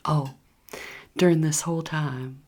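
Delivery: normal talking voice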